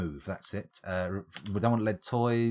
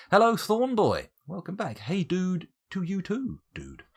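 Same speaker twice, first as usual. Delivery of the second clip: excited greeting; 10 semitones higher, 6 dB louder than usual. Real, not acted. Greeting chat viewer.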